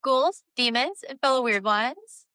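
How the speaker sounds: spooky host greeting, lightly hammed; horror host. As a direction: welcome the ghouls like a horror host. Spooky channel greeting to viewers.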